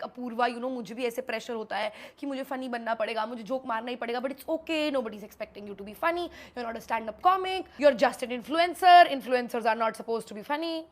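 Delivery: calm her down kindly; gentle reassurance. Retold or imitated. Samay comforting her.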